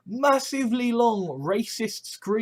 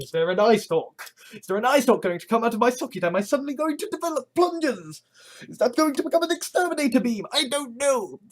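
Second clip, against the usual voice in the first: rising, faster mock panic about turning Dalek; 4 semitones higher, faster than usual. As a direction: gabble out the fears, climbing higher.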